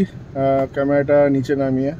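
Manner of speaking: speaking softly. Real, not acted. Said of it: "লুকিয়ে লুকিয়ে দেখাচ্ছি".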